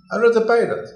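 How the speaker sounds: ordinary delivery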